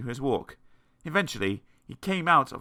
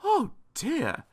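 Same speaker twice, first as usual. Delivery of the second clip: higher, sympathetic tone; kindly concern; 14 semitones higher than usual. A narrator's reading. Kindly tramp finding fainted Mister Jelly, gently concerned. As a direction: sound kindly and concerned, pitched up. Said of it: "he was a kindly tramp".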